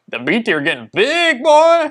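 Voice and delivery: excited shout. Real, not acted. To co-host, cheering the pile of B tier picks, loud whoop. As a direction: hype it up and yell the last word.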